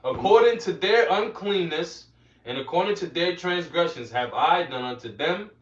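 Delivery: emphatic opening, settling into measured reading; scripture reading. Acted. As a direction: read the verse out phrase by phrase. Reads scripture aloud to listeners.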